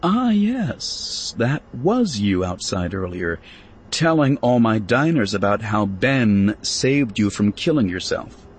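mother coyly teasing her daughter. Acted. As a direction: tease her daughter knowingly. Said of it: "looked coyly".

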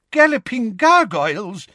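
put-on high, loud old man's exclamation; shouting. A narrator's reading. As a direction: blurt out in shock. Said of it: "shouted Professor Tofty".

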